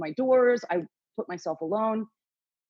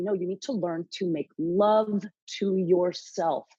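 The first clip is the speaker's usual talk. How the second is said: inner voice's instruction; slower than usual. Retold or imitated. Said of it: "this thing said to me".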